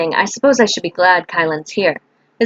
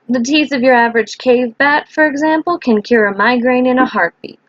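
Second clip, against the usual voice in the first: lightly voiced potion maker, higher pitch; Kylan; 5 semitones higher than usual. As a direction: explain brightly in a slightly put-on higher voice.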